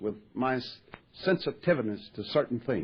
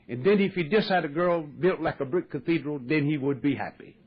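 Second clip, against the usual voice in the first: put-on Dutch accent. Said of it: "he said in his Dutch accent".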